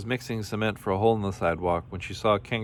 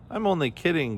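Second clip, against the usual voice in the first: high, teasing storybook line; a light mock giggle in the pitch; giggled; 8 semitones higher than usual. A narrator's reading. Kangaroo teases trapped Camel, lightly giggled. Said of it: "giggled Kangaroo".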